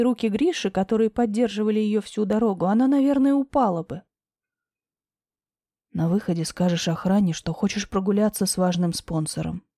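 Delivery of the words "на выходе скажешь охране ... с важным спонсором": lower, steady man's voice; low male voice. Acted. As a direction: voice Grisha low and calm. Deep male voice for Grisha.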